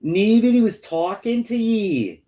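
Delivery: hammed-up Scottish retort; Scottish accent. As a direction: tell her off in mock Scots. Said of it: "not as bad as the Scottish accent".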